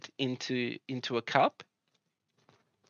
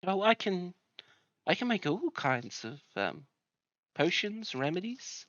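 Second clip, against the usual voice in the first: lightly voiced friendly healer, a bit higher; welcoming healer lady; 3 semitones higher than usual. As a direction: greet newcomers like a kind herbalist. GM voicing the herbalist.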